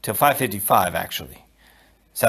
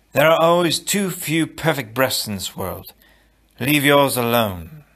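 a hint of a young hero's measured warning; character voice; 3 semitones higher than usual. Wesley's voice heard by Buttercup.

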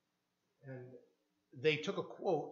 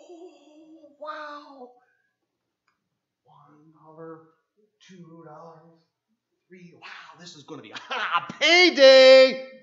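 higher, slow counting then loud laughing burst; giddy greed; 5 semitones higher, 19 dB louder, much slower than usual. Pretend. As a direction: gloat over the haul. Peter counting fish money, laughing.

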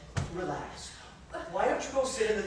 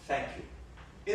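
whispered, much softer thank you; 9 semitones lower, 9 dB quieter than usual. Acted. Husband quietly whispers thanks to his brother. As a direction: breathe the thanks almost voicelessly. Brother refusing money softly.

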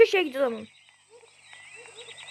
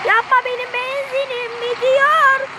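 mock begging; 9 semitones higher than usual. Begging attacker not to hit.

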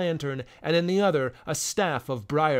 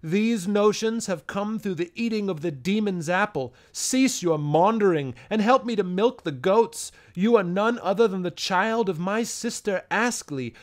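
put-on loud, grieving old man's complaint; lamenting; 3 semitones higher, 4 dB louder than usual.

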